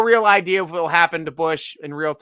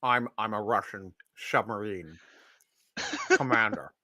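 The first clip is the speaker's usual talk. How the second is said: low, quiet Russian sub commander; a hint of a Scottish Russian captain; Scottish Russian accent; 8 semitones lower, 10 dB quieter than usual. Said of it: "best Scottish Russian accent".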